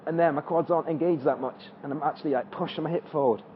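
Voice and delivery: breathless mid-exercise; out of breath. Real, not acted. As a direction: talk while catching your breath. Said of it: "I'm out of breath just from that".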